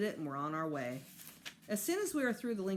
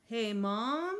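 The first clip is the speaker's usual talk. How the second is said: calling out; 4 semitones higher, 5 dB louder than usual. A narrator's reading. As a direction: call out across the house. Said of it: "I called".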